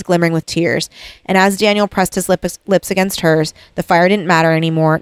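lightly read-aloud book passage; story reading. Acted. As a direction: read the romantic scene out gently. Reads novel passage aloud.

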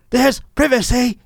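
high, hammed-up British character voice; mock British accent. Mimicking the fugitive's plea on TV, mock British accent. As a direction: parody a cartoonish British accent. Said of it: "sounds like a Mike Myers character".

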